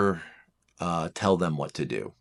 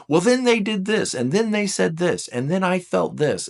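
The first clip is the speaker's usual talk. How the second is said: high, rushing list of grievances; lamenting four; 10 semitones higher, 3 dB louder than usual. Acted. A four lamenting mistreatment to a partner, high and rushing. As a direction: pour out the hurt story.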